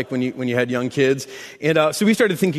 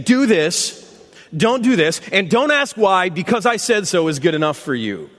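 commanding God; 4 semitones higher than usual. Acted. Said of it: "God is sitting up in heaven saying".

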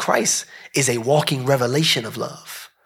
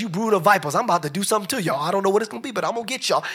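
mock fussing Jesus; 4 semitones higher, much faster than usual. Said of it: "he was fussing".

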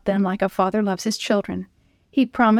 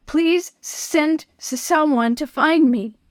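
praying aloud; 6 semitones higher, slower than usual. Acted. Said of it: "he prayed out loud".

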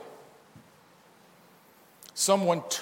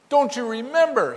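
Don't you remember high and loud; louder, urgent sermon question; emphatic plea; 8 semitones higher, 7 dB louder than usual. Real, not acted. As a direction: hurl the question at them. Preacher repeats the angel's question.

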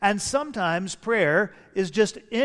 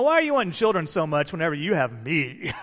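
laughing paraphrase; faster than usual. Retold or imitated. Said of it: "You know".

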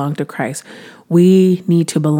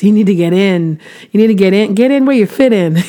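building preacher's urging; 3 semitones higher, 4 dB louder, faster than usual. Acted. Preaching, urging listeners to commit.

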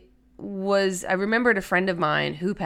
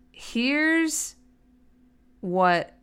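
whisper; 5 semitones higher than usual. Acted. Building up to a reveal.

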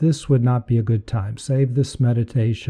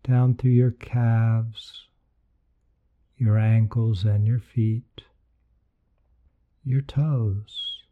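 guided meditation. Acted. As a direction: lead them gently into relaxation.

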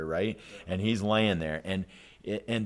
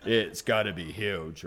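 laughing awe; 2 semitones lower, 4 dB quieter, slower than usual. Retold or imitated. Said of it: "he says, right?".

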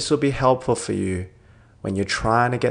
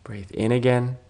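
calm, measured meditation voice with long pauses; guided meditation. Real, not acted. Doctor leading a listener towards sleep, calm guided meditation. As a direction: gently guide them through it, leaving space to breathe.

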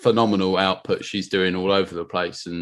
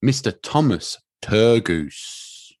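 show announcer intro. Pretend. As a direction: welcome the guest like an MC, slowing on the name. Introduces the guest as show host.

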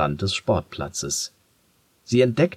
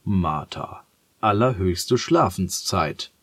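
mahnend; slower than usual. Acted. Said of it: "Stirn liegt mahnend in Falten".

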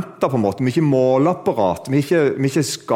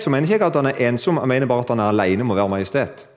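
normal talking voice

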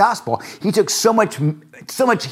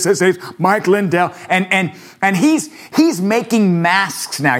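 Mike Lindell impression. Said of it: "he talks like this".

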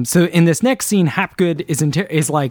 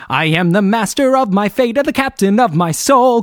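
higher, grandly declaimed motto; proud recitation; 5 semitones higher, 3 dB louder than usual. Retold or imitated. Host voicing George reciting his motto, grand. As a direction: declaim it like a hero.

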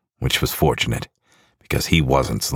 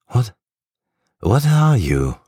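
shocked; 10 semitones higher, 4 dB louder, slower than usual. Acted. Hunter shocked facing monster.

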